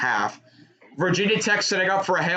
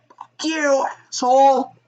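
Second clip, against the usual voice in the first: raised, higher voice mimicking a yell; imitated heckler's yell; 10 semitones higher, 5 dB louder than usual. Relaying what someone in the stands yelled, imitated shout. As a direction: call it out like a heckler. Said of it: "someone in the stands that just yelled".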